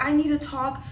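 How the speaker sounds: imitated screaming. Grandma demands whoever is in charge, mild mock scream. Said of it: "My grandma starts screaming".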